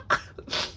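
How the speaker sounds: soft breathy laugh through tears; breathless teary laugh. Real, not acted. Reviewer recovering after tearing up, breathless teary laugh. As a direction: let out a shaky laugh and catch your breath. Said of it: "Let me catch my breath".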